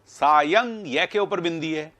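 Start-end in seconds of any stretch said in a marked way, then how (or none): 0.1-0.9 सायं higher, split as सा-यंग; correct pronunciation. Shown as a demonstration. Teacher points to the dot over ya, सायं with nasal यं. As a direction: sound out सायं with a clear nasal ending. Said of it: "इसका उच्चारण ये है".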